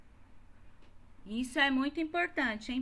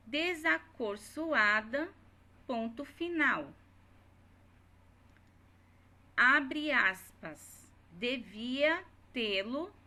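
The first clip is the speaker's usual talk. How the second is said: dictating; slower than usual. Shown as a demonstration. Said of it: "dictating the quoted dialogue".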